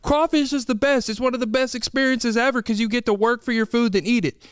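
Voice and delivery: high, mocking crawfish-lover's outrage; mock indignant fan. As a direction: parody the offended fan. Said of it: "you're like".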